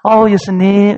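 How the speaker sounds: acted cheerful greeting; lightly hammed-up welcome; brightly smiling voice. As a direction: greet a guest with a put-on smile. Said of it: "활짝 웃는 목소리로".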